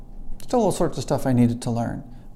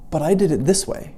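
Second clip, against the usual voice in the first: higher-pitched retold protest; contentious; 4 semitones higher than usual. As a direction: argue your case to a doubting professor. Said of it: "a little contentious at times".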